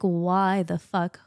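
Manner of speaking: drawn-out, slow outraged question; slow retold anger. Mother retelling her rage at the pediatrician, slow and outraged. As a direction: drag out each word in disbelief. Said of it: "I was so angry".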